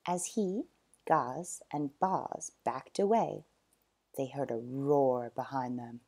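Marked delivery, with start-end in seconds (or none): 4.2-6.0 hushed, whispered narration; whispered suspense. A narrator's reading. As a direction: breathe it like a secret. Suspense before the roar.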